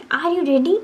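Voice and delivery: ready stretched long and rising high; rising question. Shown as a demonstration. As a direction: pull out ready with the voice going up. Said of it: "रेडी को हमने लम-, खींचा, लंबा लिया". (रेडी को खींचकर ऊपर उठाना)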